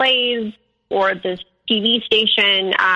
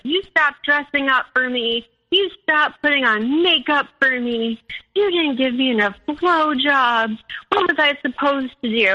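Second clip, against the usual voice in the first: retold shouting; 4 semitones higher than usual. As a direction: imitate a boyfriend's accusing tirade. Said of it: "he's, like, shouting at me".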